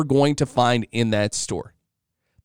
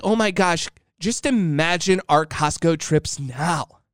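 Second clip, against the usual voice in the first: super excited wife. Retold or imitated. Wife imagines matching Costco outfits, mildly mock-excited. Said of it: "is super excited".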